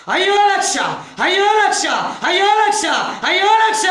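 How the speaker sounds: high, loud repeated wail of loss; wailing shout. Retold or imitated. Villager wailing over lost lakhs, loud shout. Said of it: "గట్టి గట్టిగా అరుస్తున్నాడంట".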